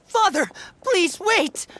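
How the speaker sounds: pleading call. Acted. To his father, begging him to wait. Son stops father's sentence.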